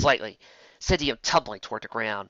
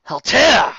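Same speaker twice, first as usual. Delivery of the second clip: high, loud shocked cry; startled recognition; 12 semitones higher, 11 dB louder than usual. Acted. Raindrops spots her old rival Halter, high startled cry. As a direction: blurt the rival's name.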